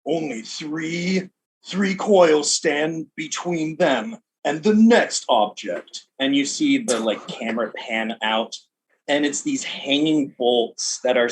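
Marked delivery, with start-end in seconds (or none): 0.0-6.1 lightly voiced announcer, slow; sports announcer. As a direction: build suspense for the next stage. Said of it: "the announcer just say".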